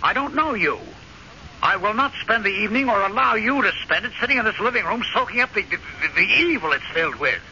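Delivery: high, overwrought insistence; agitated outburst. Acted. Husband insists to wife the house is evil, agitated. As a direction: plead and accuse at once, pitch climbing.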